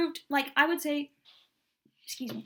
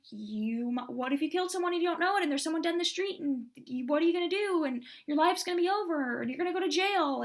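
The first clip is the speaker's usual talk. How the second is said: panicked inner voice; 4 semitones higher than usual. Retold or imitated. Anxious mind voicing panicked thoughts.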